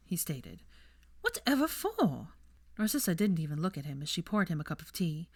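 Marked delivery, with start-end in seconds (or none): 1.2-2.3 high, slow aristocratic mother's voice; cold mother questioning her son; haughty mother. A narrator's reading. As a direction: draw it out disdainfully. Narcissa's voice, cold.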